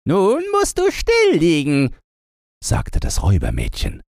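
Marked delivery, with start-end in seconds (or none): 0.1-1.9 put-on high, commanding girl; bossy robber girl. A narrator's reading. Robber girl orders the reindeer, high bossy voice. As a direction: order the reindeer to keep still.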